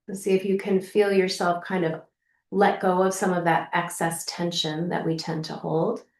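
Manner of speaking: settled, lightly softened meditation voice; guided meditation. Acted. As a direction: ease the listener gently into letting go. Leads a guided practice.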